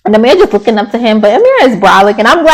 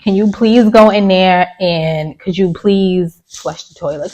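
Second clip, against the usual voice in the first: slow, softly polite ask; quoting Nick's polite request, slow and soft; 2 semitones lower, 3 dB quieter than usual. Retold or imitated. Slow, soft polite ask. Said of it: "Nick asked him politely".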